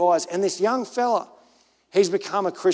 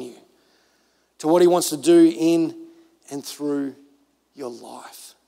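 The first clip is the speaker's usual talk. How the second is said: earnest, weighted pulpit plea; preaching appeal; 3 semitones lower, slower than usual. Real, not acted. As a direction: urge them firmly, then drop to a hush on the last words.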